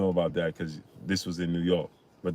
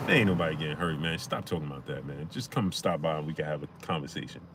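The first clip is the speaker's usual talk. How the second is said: rapper impression; 5 semitones lower, 7 dB quieter than usual. Repeats the rapper's line after laughing.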